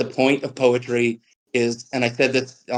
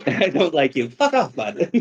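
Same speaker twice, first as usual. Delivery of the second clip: laughing jab; 3 semitones higher than usual. Real, not acted. Laughing back at heckling cousin.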